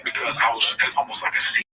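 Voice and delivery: muffled behind a hand; hand over mouth. Real, not acted. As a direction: talk through your hand. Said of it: "I put my hand over my mouth real quick".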